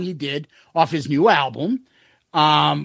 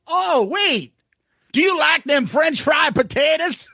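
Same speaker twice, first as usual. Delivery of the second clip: drawling cop voice; 9 semitones higher than usual. Retold or imitated. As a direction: ham up a Southern cop's question. Cop voiced in retold story.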